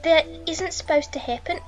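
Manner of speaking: wobbly put-on accent drifting Australian; accidental Australian accent in an acted lament; Scouse slipping into Australian. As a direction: attempt Scouse and land in Australian. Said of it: "That was Australian".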